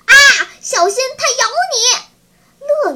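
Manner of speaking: high, startled yell; shouted warning. A narrator's reading. Boy warns friend about the fallen spider, shouted in alarm. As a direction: cry out in alarm to warn a friend. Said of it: "乐乐大叫".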